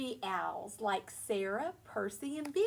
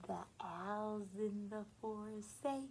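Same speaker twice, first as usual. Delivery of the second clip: unvoiced cozy whisper; 3 semitones lower, 7 dB quieter than usual. Real, not acted. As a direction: whisper it in the dark room. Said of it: "nice and cozy".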